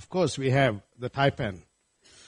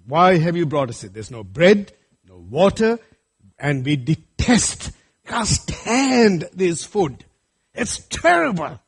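complaining Israelites; slower than usual. Acted. Preacher voices complaining Israelites again.

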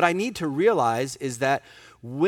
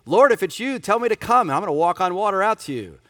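much higher and louder, fast and eager; bold confident faith; 6 semitones higher, 5 dB louder, faster than usual. Shown as a demonstration. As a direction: declare it like a fearless believer. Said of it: "that is great faith at that moment".

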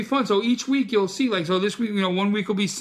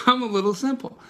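chuckling through the joke; a light laugh in the voice; laughing self-mockery; 4 semitones higher than usual. Real, not acted. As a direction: laugh at yourself as you say it.

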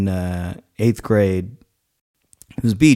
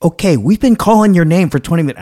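mock scolding; 8 semitones higher, 5 dB louder, faster than usual. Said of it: "she was like".

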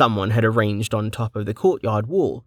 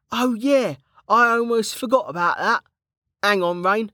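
higher, rough-edged friendly soldier; Kettle's voice; 12 semitones higher than usual. A narrator's reading. Kettle greeting an old friend back from the dead, jovial. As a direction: play the cheeky old comrade, teasing.

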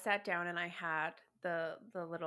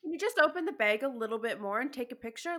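exasperated sarcasm; 3 semitones higher, 4 dB louder than usual. Retold or imitated. Mocking seller's refusal.

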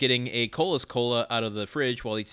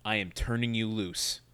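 mock solemn; 3 semitones lower than usual. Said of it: "she straightens up and she just says".

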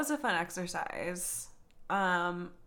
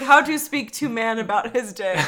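laughing quote; 6 dB louder than usual. Retold or imitated. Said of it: "Until I was like".

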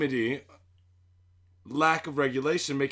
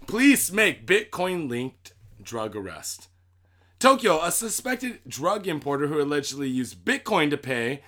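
measured news-article reading. Acted. Host reads crime news to co-host, measured newsreader delivery. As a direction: read the headline and story out deliberately.

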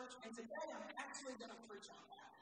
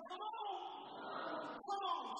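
high, loud beckoning shout; raised voice, calling them forward; rousing call; 6 semitones higher, 5 dB louder, much slower than usual. Acted. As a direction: urge the crowd out with a big call. Preacher voicing Jesus' call, rousing crowd.

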